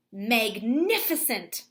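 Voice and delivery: magnificent said slowly, syllable by syllable; slow modelled word. Shown as a demonstration. Teacher modelling the spelling word for students, slow. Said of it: "use my letter sound relationships".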